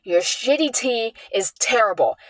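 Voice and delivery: slow, lightly mocking retelling of her insult; quoting mom's nasty words with mild contempt; mimicking mom's insult. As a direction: drawl her insult out slowly, a hint of scorn. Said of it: "what she says".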